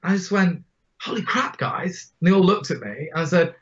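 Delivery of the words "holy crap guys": high, breathy-free jolt of surprise, then dropping away; a burst of retold astonishment; startled exclamation. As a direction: blurt it out as if struck by an idea. Sudden realization mid speech.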